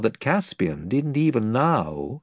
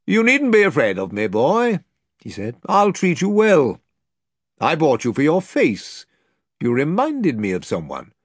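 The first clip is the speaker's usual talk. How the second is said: higher, louder kindly noble; reassuring lord; 4 semitones higher, 4 dB louder than usual. Acted. The lord reassuring Caspian he'll be treated well, kindly. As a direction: put the boy at ease.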